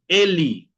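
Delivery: "Eli" with the last vowel sounded as ee; final E as I. Shown as a demonstration. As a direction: model "Eli" ending in a clear i sound. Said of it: "¿Por qué yo pronuncio Eli?".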